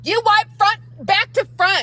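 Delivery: very high mocking squeak imitating Sassy; Sassy impression. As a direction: squeak it way up high to mock her. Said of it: "my best Sassy impression".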